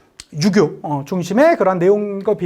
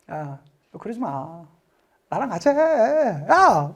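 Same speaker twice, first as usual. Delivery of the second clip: coaxing king; 4 semitones lower, 5 dB quieter, much slower than usual. Acted. King coaxing Cheok over.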